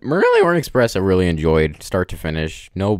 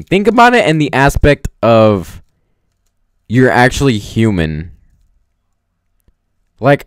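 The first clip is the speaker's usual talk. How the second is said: louder, insistent arguing with a friend; arguing point; 3 semitones higher, 7 dB louder than usual. Real, not acted. Vlogger arguing the ending with friend Ernest, louder insistent tone. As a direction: push back firmly, raising the voice.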